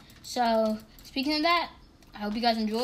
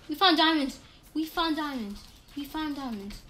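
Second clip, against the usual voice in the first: excited, fading; 4 semitones higher than usual. Real, not acted. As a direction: repeat the joy, winding down. Repeated joy fading.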